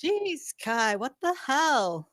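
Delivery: startled. Acted. Startled by the yell.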